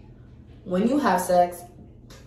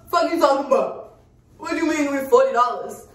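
mock-outraged, pitched higher and punched; exaggerated indignant retort; 6 semitones higher, 4 dB louder than usual. Customer challenging the pharmacy tech over the price, mock indignation. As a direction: play up the outrage as a joke. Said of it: "I didn't say it like that".

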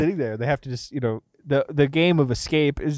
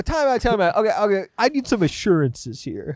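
mock pleading; 6 semitones higher than usual. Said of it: "if I would go".

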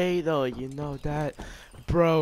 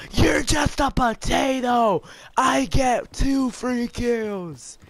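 mocking taunt; 7 semitones higher, 3 dB louder than usual. Real, not acted. Taunting opponent mid-game.

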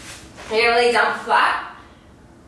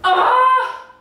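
loud effort cry mid-rep; strained shout; 11 semitones higher, 5 dB louder than usual. Real, not acted. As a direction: yell from exercise strain.

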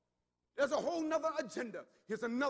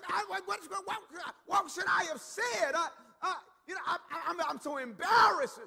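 louder, rattled embarrassed daughter; flustered daughter; 4 semitones higher, 5 dB louder than usual. Retold or imitated. Daughter telling her dad, loud and flustered. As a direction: stammer out the embarrassment.

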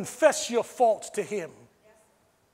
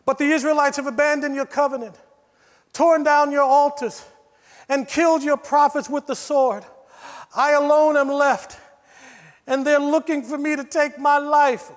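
Elijah's complaint; 4 dB louder than usual. Acted. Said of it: "he replied".

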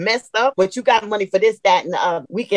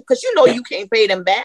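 emphatic call-out. Real, not acted. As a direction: hit it hard, like you've lived it. Emphatic testimony about funeral costs.

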